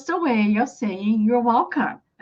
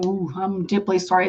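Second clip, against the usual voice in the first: deeply sorry; 5 semitones lower, 5 dB quieter than usual. Acted. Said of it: "This is a more serious situation".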